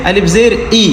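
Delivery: "ई" as a long ee; teacher's demonstration of ee on "ई"; long "ई" sound. Shown as a demonstration. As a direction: spell out alif zer, then say "ई" as ee. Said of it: "आवाज़ नीचे की तरफ दबती है".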